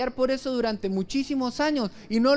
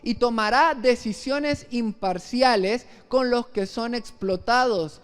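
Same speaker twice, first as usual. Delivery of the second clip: scripture reading. Acted. Reads Isaiah verse aloud slowly.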